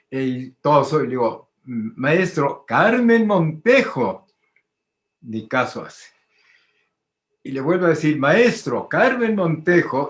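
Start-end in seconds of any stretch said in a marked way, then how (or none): 1.6-4.3 slow, grand, ceremonious announcement; slow solemn formal introduction; pompous and solemn. Retold or imitated. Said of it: "prosopopéyico y solemne". 8.2-10.1 slow, grand, ceremonious announcement; slow solemn formal introduction; pompous and solemn. Retold or imitated. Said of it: "prosopopéyico y solemne".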